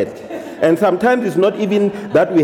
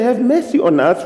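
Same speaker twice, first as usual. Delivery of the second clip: higher, raised cry of "mercy"; loud plea; 6 semitones higher than usual. Retold or imitated. Preacher voicing lepers crying to Jesus, loud plea. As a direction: call out for mercy. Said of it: "they say it in a very loud voice".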